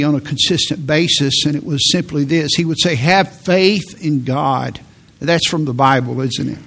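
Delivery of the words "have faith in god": slow, weighty Have faith in God; each word of Have faith in God set apart slowly; resonant preaching refrain. Retold or imitated. Preacher quoting his old teacher's refrain. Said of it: "the way he said it was, was something".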